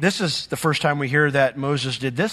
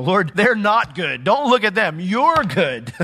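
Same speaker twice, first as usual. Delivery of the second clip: pleading Moses; 5 semitones higher, 4 dB louder, slower than usual. Retold or imitated. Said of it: "Moses pleading".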